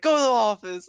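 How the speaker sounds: put-on teacher ordering a kid to the office; stern teacher. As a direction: send him off firmly.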